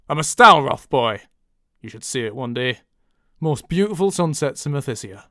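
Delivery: northern English accent; northern-accented character line; different accent. Shown as a demonstration. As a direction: try it as a northern lad. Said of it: "monologuing in different accents".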